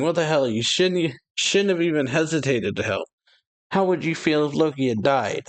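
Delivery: retold scolding yell. Ida yelling at Harold for hesitating to help, mild mock yell. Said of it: "Ida's yelling at the dude".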